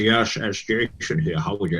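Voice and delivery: lightly voiced answerphone greeting. Jason's answer phone message, read in a put-on voice. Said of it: "his answer phone message was about three different people".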